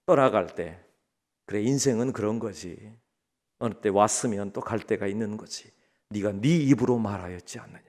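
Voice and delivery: low, hushed, measured rebuke; calm divine reply. Acted. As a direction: answer the protest softly and low as God. God continues the calm answer. (낮고 차분하게 타이르듯)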